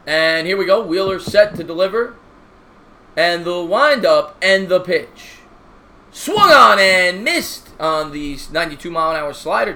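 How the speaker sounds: slow broadcaster call on the pitch; play-by-play announcer. Acted.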